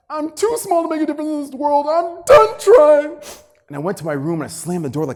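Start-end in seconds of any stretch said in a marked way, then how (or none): 0.1-3.2 put-on teen despair. Fourteen-year-old telling his dad he quits, high and wailing. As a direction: cry it out like a bullied kid giving up. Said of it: "I was like".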